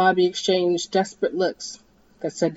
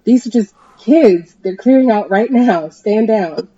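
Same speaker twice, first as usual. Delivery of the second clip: higher, much louder screech; screech into mic; 4 semitones higher, 9 dB louder, slower than usual. Acted. Dee screeches into her loudspeaker at the helicopter. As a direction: scream it over the loudspeaker.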